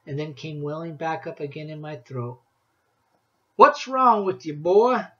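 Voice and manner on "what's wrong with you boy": put-on loud, high, backwoods old woodsman drawl; old woodsman Rancid. A narrator's reading. Woodsman tells the boy about Christmas trees, loud backwoods voice. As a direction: boom it out like a grizzled mountain man.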